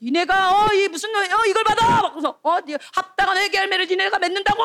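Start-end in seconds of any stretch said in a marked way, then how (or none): 0.0-2.0 high, ranting prophet; angry scolding. Acted. John the Baptist scolding the religious leaders, angry rant. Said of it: "막 그래서 막 뭐라고 해". 2.4-4.6 high-pitched prophet's rant; angry scolding. Acted. John the Baptist demanding repentance from leaders, angry rant. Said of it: "막 그래서 막 뭐라고 해".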